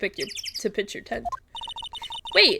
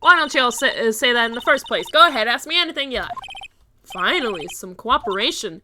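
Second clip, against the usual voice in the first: improvised southern woman. Acted. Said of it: "I have no idea what voice I'm doing for her".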